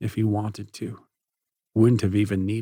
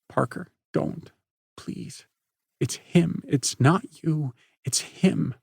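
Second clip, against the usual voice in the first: pleading; 7 semitones higher than usual. Acted. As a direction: beg him to stay. Chloe begging cousin.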